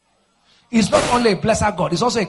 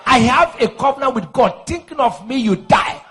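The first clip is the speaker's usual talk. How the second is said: raised preaching voice, ending loud; forceful declaration; 4 semitones higher, 5 dB louder than usual. Real, not acted. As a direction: declare it boldly over the congregation.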